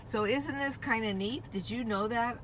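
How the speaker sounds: ordinary talk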